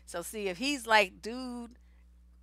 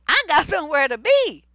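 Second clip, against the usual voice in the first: loud, higher, insistent acted retort; mock indignant outburst; 5 semitones higher, 11 dB louder than usual. Driver excusing running a red light, mock-indignant and loud. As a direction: blurt it out like an impatient driver.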